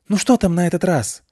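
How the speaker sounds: calling out across a garage; shouted call. Acted. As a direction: call out loudly from afar. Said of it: "крикнул оставшийся у входа куратор".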